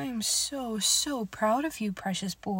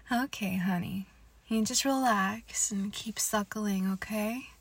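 whispering. Acted. Whispered intimate roleplay.

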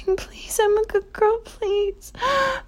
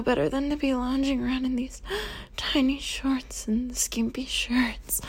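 whisper; 4 semitones lower, 6 dB quieter than usual. Acted. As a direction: linger over it in a hush. Apologetic submissive roleplay.

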